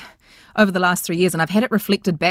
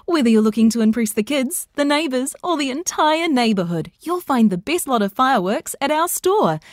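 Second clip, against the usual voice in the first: high, upbeat store advert read; retail voice-over; 7 semitones higher than usual. Shown as a demonstration. Voice artist demoing a store advert, retail announcer voice. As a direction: sell it like a fireworks commercial. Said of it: "that retail kind of sound".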